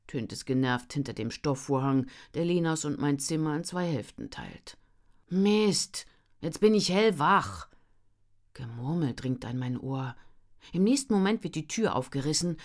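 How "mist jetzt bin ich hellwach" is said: startled. Acted. Narrator jolted awake.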